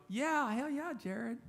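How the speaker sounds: high, hyped-up cheer; high cheer shown to the crowd. Shown as a demonstration. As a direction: whoop it up for the guy. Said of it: "That's when you go".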